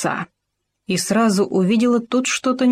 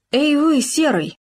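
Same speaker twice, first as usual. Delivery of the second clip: respectful fox; 8 semitones higher than usual. Acted. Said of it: "почтительно обратилась лиса".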